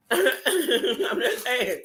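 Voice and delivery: drawn-out chuckle into the words; real amused chuckle; chuckling. Real, not acted. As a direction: laugh first, then say it lightly. Chuckles while excusing own remark.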